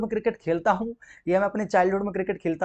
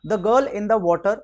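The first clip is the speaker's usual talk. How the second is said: slow reading; much slower than usual. Shown as a demonstration. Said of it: "reading the question slowly".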